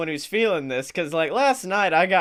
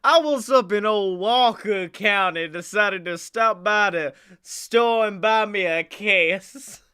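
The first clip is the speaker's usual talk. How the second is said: put-on Southern accent; 3 semitones higher than usual. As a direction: lay on a thick country twang. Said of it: "That's how you talk in Walker County".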